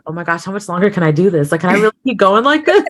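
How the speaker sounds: rushed, mildly exasperated inner voice; retold exasperation. Retold exasperation while holding voice.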